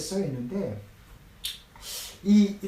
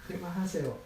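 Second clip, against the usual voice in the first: softer, flat and falling stop it; quiet firm stop; 7 dB quieter than usual. Retold or imitated. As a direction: close the subject quietly and firmly. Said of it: "였던 거예요". (조용히 단호하게 끊는 말투)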